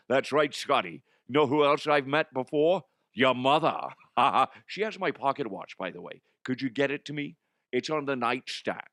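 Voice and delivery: lightly voiced teasing character, slurred esses; Connery. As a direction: taunt him, then ask offhandedly. Connery character taunts the host.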